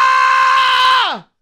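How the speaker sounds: high, loud sustained "aah"; long mock scream. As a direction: hold a piercing high scream. Mocking shriek at the wife on screen.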